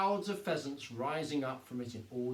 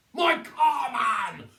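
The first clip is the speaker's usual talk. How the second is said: higher, louder outraged shout; 9 semitones higher, 11 dB louder, much slower than usual. A narrator's reading. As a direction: yell for his precious car. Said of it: "shouted Mister Hazel".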